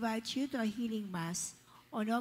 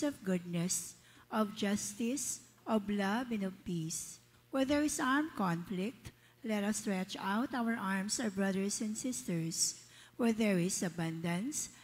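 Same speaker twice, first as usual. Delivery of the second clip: prayer. Acted. Lector leads prayer for peace.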